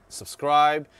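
muffled behind mask; through a face mask. Real, not acted. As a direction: mouth covered by cloth. Seen 5: Black cloth mask covers mouth and nose; pulled down by 9.8.

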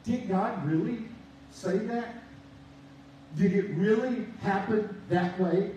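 lightly voiced sly tempter; a hint of the serpent sowing doubt; a preacher slipping lightly into Satan's doubting voice. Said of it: "hear Satan's voice all the time".

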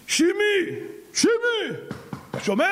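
high call to a friend inside. Acted. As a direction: friend shouting from outside. Friend calls at the door.

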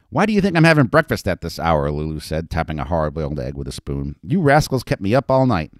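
grouse about lost sleep; complaining madam. Acted. Lulu complaining to Betty about the noisy night.

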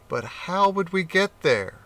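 a touch of a puzzled cat; cat wondering. Acted. Cat voiced.

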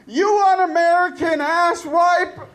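mock outrage, hurling an insult at a doubter; hammed-up angry retort; outraged critic.

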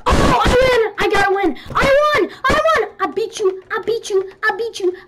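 high, loud triumphant yelling; victory shout. Real, not acted. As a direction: yell it like you just won. Winning the game, cheering.

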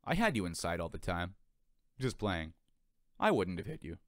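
clear and friendly. Acted. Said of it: "a voice as clear and as friendly as the wind".

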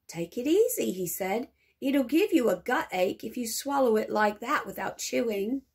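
a lightly voiced friendly shopkeeper; hint of a shopkeeper's caution. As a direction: ease him off like a kindly shopkeeper. Shopkeeper voice in story.

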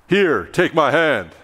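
lightly voiced coach with a shadow behind his eyes; hint of a mean teacher. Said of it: "Your high school calculus teacher".

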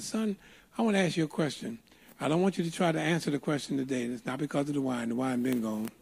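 lightly voiced old man, quiet and measured; old man's counsel. Old man hands over his card, quiet retold counsel.

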